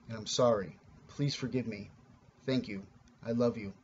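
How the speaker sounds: low, softened heartfelt apology; sincere. Shown as a demonstration. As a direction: say it sincerely to yourself, low and subdued. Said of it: "and you sincerely".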